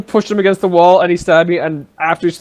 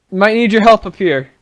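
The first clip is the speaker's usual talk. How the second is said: calling up the stairs; 3 semitones higher than usual. Acted. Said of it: "Just gonna say".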